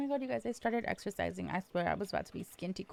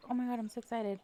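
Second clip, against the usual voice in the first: mock excitement; 5 semitones higher, much faster than usual. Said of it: "like this little kid".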